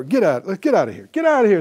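fast, rising furious order to leave; angry Naaman. Retold or imitated. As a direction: order the driver off in a huff. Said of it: "he told his driver".

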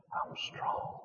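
faint, breathy whisper of a weak woman; barely whispered. Retold or imitated. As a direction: whisper it with almost no strength. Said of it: "So she barely whispered".

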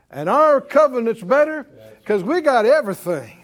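loud, high, driving preacher's cry; full-force preaching. Acted. Preacher rousing the congregation about the better covenant, loud and high. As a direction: preach it to the rafters, rising and ringing.

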